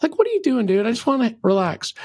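mock whiny brush-off, dude just wants a beer; hammed-up irritated friend; annoyed friend. Friend at bar wants to relax.

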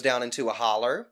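country Southern accent on "holler"; real country. Real, not acted. Storyteller describes the road dipping, real country accent. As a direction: say "holler" country-style, ending in -er. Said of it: "I'm gonna get real country".

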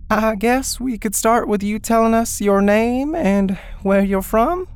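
high, nervous woman's voice. Acted. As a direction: ask timidly, a little shaken. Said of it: "She sounded almost as nervous as Chet".

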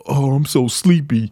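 slow, drawn-out sleepy complaint; mock giving up. Host imitating negative self-talk, mock sleepy and defeated. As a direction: drag it out like surrendering. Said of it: "like, waving the white flag".

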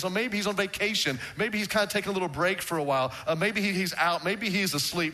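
playful taunt. Retold or imitated. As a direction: tease the prophets about their god. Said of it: "he is taunting them".

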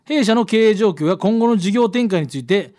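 clear, projected radio letter read; storytelling read-aloud voice. A narrator's reading. Reads out listener's letter.

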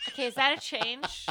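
mock politeness with an edge; passive-aggressive actor. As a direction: query the note like an affronted actor. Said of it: "the passive-aggressive actor thing".

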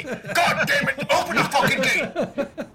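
high, drawn-out demand through laughter; hammed-up exasperation, pitched high; exasperated demand. Player orders guards to open the gate, hammed-up exasperation.

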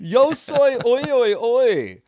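high, loud hammed-up Spanish chant; mock Spanish. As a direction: belt it like a silly fake Spanish crooner. Joking fake Spanish chant.

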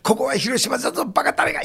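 lightly voiced Hiroshima local; Hiroshima dialect. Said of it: "広島弁で言う".

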